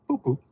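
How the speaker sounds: high little boops; imitated car chime. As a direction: mimic a chime in two short high notes.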